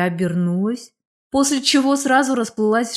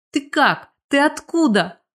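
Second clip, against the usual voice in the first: startled, higher-pitched questions; stunned gabble; 6 semitones higher than usual. A narrator's reading. Stunned woman questioning a long-lost classmate, astonished gabble. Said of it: "ошарашенная затараторила я".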